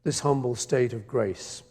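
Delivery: measured, solemn reading of a poem; poem recitation. Acted. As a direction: read each line like a cherished verse. Recites his poem to audience.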